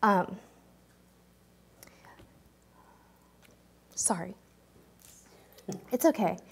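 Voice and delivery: fighting tears while thanking them; choked up. Real, not acted. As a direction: voice catching, holding back tears. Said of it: "this is the part where I might get choked up".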